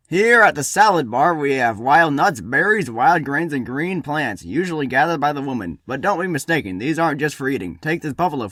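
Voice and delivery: lightly voiced showy host; diner host patter. Host showing guests the salad bar, lightly showy patter. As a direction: present each dish to the guests.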